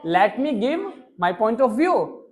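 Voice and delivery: stretched word by word for students; slow classroom model reading. Shown as a demonstration. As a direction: spell it out slowly for class. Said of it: "क्या बोलोगे?".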